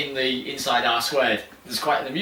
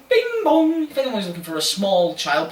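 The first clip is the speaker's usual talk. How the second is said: station announcer; 5 semitones higher than usual. Pretend.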